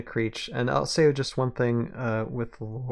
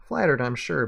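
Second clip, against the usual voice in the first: louder, wry Southern gunslinger; Southern accent; 2 semitones higher, 6 dB louder than usual. Acted. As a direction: toss it back in a Southern accent. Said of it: "I can do the accent".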